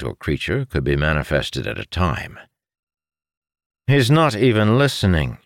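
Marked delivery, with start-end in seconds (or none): 3.9-5.4 higher-pitched, indignant retort; irritated retort. A narrator's reading. Brother retorts that his sibling is not listening, irritated retort. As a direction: snap back in mild anger. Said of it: "Arentil retorted".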